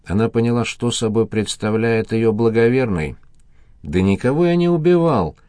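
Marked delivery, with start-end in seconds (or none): 3.8-5.4 a mildly voiced bound man grating back. A narrator's reading. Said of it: "проскрежетал". (слегка проскрежетал)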